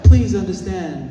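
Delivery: high, loud, slow plea; pleading shout. Retold or imitated. Mother pleading with the activist about her crying child, loud plea. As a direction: beg him to understand.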